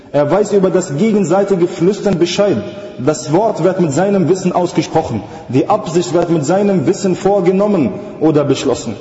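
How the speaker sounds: insistent sermon cadence; emphatic religious oration; rhythmic preaching. Real, not acted. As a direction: preach it as a measured, driving list.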